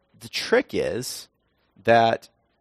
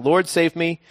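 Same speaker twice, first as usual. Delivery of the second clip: cried out; 7 semitones higher than usual. A narrator's reading. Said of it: "he cried out".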